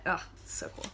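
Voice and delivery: breathy whispered gush; whispered delight. Real, not acted. Reader whispering her delight over the story's magic. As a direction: whisper your delight to yourself.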